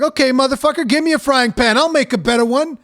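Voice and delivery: hammed-up angry challenge; a customer answering the chef with mock fury; fed-up customer. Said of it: "And I'm like".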